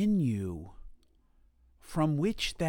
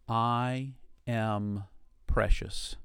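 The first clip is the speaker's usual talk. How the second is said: slow affirmation; slower than usual. Shown as a demonstration. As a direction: say it gently to yourself. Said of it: "to yourself, say".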